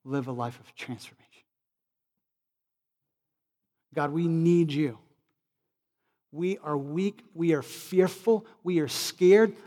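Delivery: measured pleading with long pauses; earnest public prayer. Real, not acted. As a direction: pray aloud, phrase by phrase. Leads a prayer.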